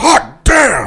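shrill, very high-pitched, loud cry. Performing another requested line, Richard Nixon voice. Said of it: "Can you say "hot damn" is Nixon?".

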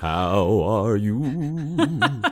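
high, loud, eerie put-on spooky voice with you drawn out. Since it's almost Halloween, speaker asks the usual question in a spooky voice. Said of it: "I'm going to ask you in a spooky voice".

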